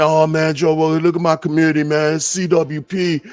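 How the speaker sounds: mock taunt. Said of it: "You see me throwing insults at him, going".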